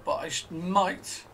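might leaned on, hedging; stress on might. Real, not acted. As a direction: land gently on the word might. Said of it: "I emphasize the word might".

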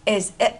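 "is it" run together as one word; linked sounds. Shown as a demonstration. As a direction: link the s of "is" into "it". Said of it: "mà đọc nối là is it".

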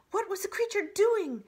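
high, loud storybook weasel; questioning weasel. A narrator's reading. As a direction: pipe up from the crowd with an urgent question. Weasel anxiously questions the owl.

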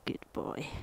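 soft whisper to the dog; whispered praise. Real, not acted. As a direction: breathe it gently to him.

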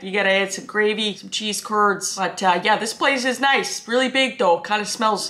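lightly hammed-up Canadian accent. Vlogger mimics a Canadian version of the clip, Canadian accent. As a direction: play a casual Canadian, lilting up on the key words. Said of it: "Just like the Canadian version".

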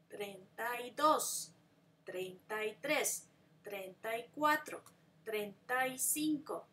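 clear, even teacher counting for students to repeat; steady model counting; model pronunciation. Shown as a demonstration. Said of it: "Try to pronounce them".

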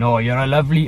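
put-on a light Welsh accent slipping in by mistake; lightly voiced Welsh accent, half-hearted. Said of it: "why am I doing the Welsh voice?".

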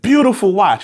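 put-on loud, admiring line in a Russian accent. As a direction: praise the watch in thick Russian. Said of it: "a thick Russian accent".

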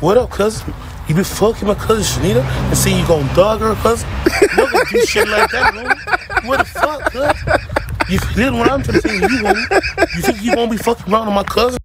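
put-on American accent. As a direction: play a hard American street guy calling out his cousin's man. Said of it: "The American accent is pretty good".

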